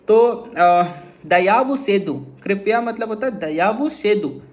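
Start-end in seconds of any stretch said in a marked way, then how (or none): 1.3-3.3 slow Tamil demo. Shown as a demonstration. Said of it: "तो कैसे बोलेंगे?".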